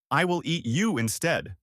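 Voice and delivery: troll threatens with a light hammed-up scream; mild scream. Troll threatens the middle goat, mild mock scream. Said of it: "screamed the troll".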